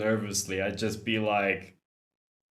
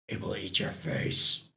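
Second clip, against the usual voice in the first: whisper; 3 semitones lower, 3 dB quieter than usual. Acted. Mock warning about the baby.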